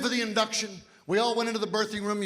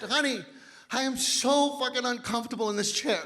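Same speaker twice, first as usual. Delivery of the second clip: deadpan complaint. Retold or imitated. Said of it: "simply said".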